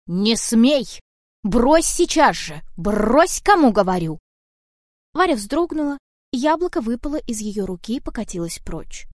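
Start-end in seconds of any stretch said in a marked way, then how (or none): 0.1-4.2 loud commanding yell; angry shout. Acted. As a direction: order her to drop it, now. Cat yells to stop Varya. (громкий сердитый приказ)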